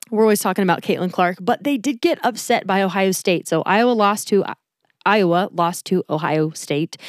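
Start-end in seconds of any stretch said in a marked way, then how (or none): 5.1-7.0 slowed down, each word placed; careful and slow. Shown as a demonstration. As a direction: say it slowly to get it right. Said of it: "That's harder to say than I anticipated".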